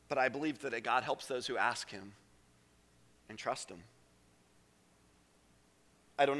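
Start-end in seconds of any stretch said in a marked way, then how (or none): 0.1-3.8 low, soft conviction; quiet pastoral belief; hushed. Real, not acted. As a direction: say it gently.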